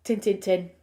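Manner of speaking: "Tin, tin, tin" run together with clipped Yorkshire vowels. Shown as a demonstration. A Yorkshire host showing off a local phrase. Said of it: "loads of things that we say".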